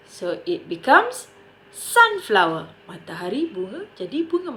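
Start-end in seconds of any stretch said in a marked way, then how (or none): 1.8-2.7 SUN in "sunflower" given the weight; stress on SUN. Shown as a demonstration. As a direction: lean on the first part of "sunflower". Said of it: "place the stress on the first noun".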